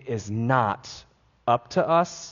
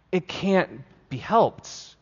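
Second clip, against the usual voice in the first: "It can't be helped" said slow and soft, releasing; slow letting go; 3 semitones higher, 4 dB quieter, slower than usual. Shown as a demonstration. Preacher releasing worries to the cosmos, slow and soft. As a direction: breathe it out like a release. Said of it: "releasing it into the cosmos and saying".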